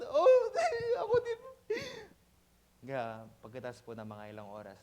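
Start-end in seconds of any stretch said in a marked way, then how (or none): 0.0-1.4 high, laughing half-sob; laughing mock cry. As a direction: laugh while faking a sob. Pastor jokes he cried too. (tumatawang pabirong iyak)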